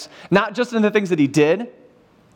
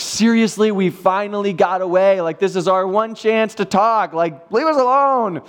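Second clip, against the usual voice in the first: mock frustrated. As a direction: whine like your break got ruined. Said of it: "that would have been frustrating".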